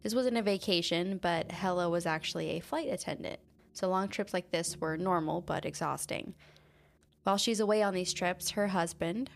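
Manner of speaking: measured, even podcast storytelling voice; true crime narration. Acted. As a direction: narrate the case calmly over the music. Reads true crime story over music.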